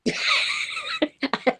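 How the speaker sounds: a soft, high, real laugh. Real, not acted. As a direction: laugh lightly at your own joke. Joking about herself.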